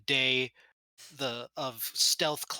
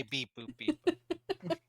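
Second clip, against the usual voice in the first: mock electronic beep-boop; 6 dB quieter, much slower than usual. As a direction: imitate beeps, leaping up in pitch. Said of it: "We don't say".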